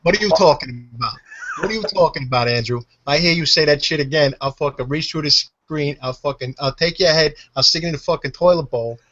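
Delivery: tough New Yorker's mock threat; New York accent. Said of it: "definite New York type of accent".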